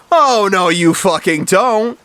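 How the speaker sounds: high, loud warning, stretched at the end; acted angry defiance; defiant. A narrator's reading. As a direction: block her with a dragged-out threat. Martha stops Alice leaving.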